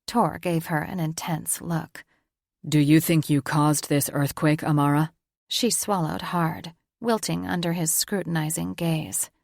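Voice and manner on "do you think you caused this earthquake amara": a hint of a stern elder reporting news; Tor, lightly voiced gruff father. Tor's voice.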